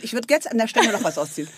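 ordinary talk, nothing marked

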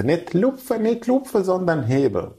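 mock the laughing old woman setting him straight; old lady correcting. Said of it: "Dann hat sie sich kaputt gelacht und meinte".

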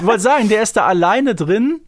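talking through real laughter; laughing. Real, not acted. Podcast host laughing while describing the scheming Schmeichler.

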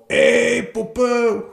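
loud Ey then very high drawn Puppe; mock a catcaller from a car window; hammed-up catcall, high and loud; catcalling guy. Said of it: "der Typ aus dem Auto mit Fenster auf".

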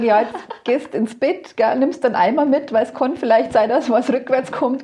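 put-on a mother gently sending her drunk son to bed; gentle mother.

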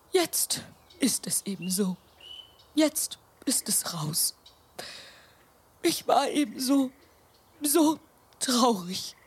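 a grandma finally owning up to her tears in a whisper; tearful whisper. Acted. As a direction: let the truth slip out in a hushed breath. Grandma admits tears to children.

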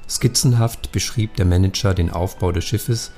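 reading a crime novel aloud; calm storyteller narration over music; story narration. A narrator's reading. Author reads novel excerpt aloud.

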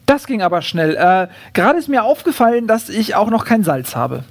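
lightly voiced kangaroo, a touch surprised; a hint of surprise, then polite explaining. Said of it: "sagt das Känguru überrascht".

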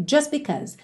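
"just because" as "jus-because"; silent T. Shown as a demonstration. Teacher tells learners what they hear, dropped T. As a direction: drop the t of "just" before "because". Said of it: "esse T não é pronunciado".

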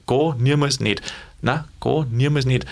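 relaxed, even-voiced denial; mildly friendly, no aggression; friendly refusal. Shown as a demonstration. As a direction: turn it down kindly. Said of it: "trotzdem freundlich gesagt".

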